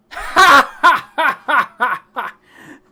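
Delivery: loud, high, measured guffaws; hearty mock laugh. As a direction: laugh big at the would-be threat. Colm laughs off the threat.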